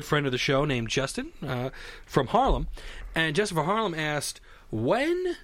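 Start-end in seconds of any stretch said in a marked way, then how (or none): 4.7-5.4 slow question read. Acted. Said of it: "reads listener question".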